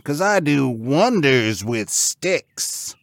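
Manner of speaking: cocky cartoon pig, a little high; boastful pig. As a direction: stretch it out like a pig showing off. Pig showing off to neighbor.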